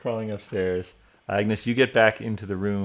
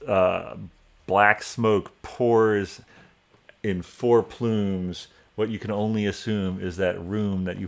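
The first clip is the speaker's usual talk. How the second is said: slow, measured narration with pauses; deliberate, ominous scene-setting; game master's scene setting; slower than usual. A narrator's reading. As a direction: draw out each image slowly for suspense.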